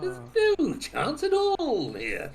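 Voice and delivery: high laughing squeal. Real, not acted. Laughing at own bad score.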